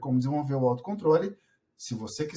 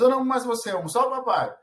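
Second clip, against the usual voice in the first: put-on sulky child; 7 semitones higher, 3 dB louder, much faster than usual. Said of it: "E pra ela a mesma coisa".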